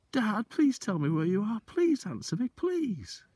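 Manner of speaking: high, begging voice rising to please; a frightened boy begging his father to answer; trembly pleading. Acted. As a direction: plead into the dark, close to tears. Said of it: "my voice began to go all trembly".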